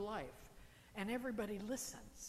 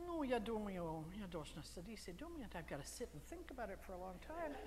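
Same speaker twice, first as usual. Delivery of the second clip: reluctant hesitation; 4 dB quieter than usual. Acted. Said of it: "This doesn't say".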